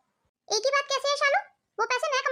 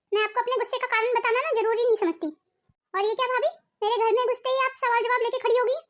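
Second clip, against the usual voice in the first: angry retort. Acted. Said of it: "तुम इतने गुस्से में क्यों हो?".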